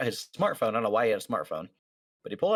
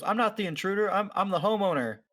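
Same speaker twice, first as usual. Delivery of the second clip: higher mock yell, imitating the squatter; 10 semitones higher than usual. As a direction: squeak out a fake outraged protest. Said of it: "the guy yells into the phone".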